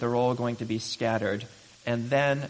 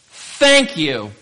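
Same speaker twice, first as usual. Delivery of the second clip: grudging thanks; 10 dB louder than usual. Retold or imitated. Grudging reply after frustration.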